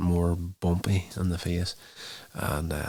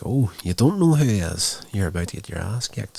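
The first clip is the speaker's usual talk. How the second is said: taunting; 3 semitones higher, 6 dB louder than usual. Retold or imitated. Cordelia taunting Russell about Angel.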